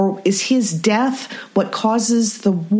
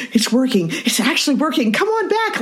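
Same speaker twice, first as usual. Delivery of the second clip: delighted Loki; 4 semitones higher than usual. Retold or imitated.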